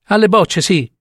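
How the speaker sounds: halting, appalled delivery; horrified revelation. Acted. Old woman revealing the courtyard horror to doctor, halting. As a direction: let it out piece by piece, in dread.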